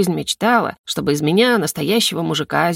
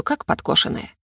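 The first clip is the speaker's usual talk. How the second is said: ordinary delivery, nothing marked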